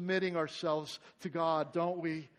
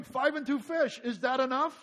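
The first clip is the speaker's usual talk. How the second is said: doubtful counting; 8 semitones higher, 10 dB louder than usual. Retold or imitated. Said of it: "So they do an accounting".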